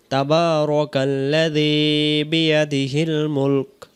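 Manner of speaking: slow, drawn-out tajweed chant; Quran recitation. Shown as a demonstration. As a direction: recite it like a qari, very slowly. Recites the first verse. (ধীর তেলাওয়াতের সুরে)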